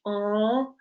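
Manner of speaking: long open "ah" demonstrated alone; isolated vowel sound. Shown as a demonstration. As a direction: sound out R as a held "ah". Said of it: "you'll see my mouth change".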